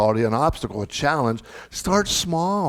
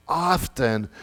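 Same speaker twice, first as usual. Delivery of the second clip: "often" drawn out slowly and set apart; stress on "often". Real, not acted. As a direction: stretch out "often" for emphasis. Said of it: "I can't stress that word enough".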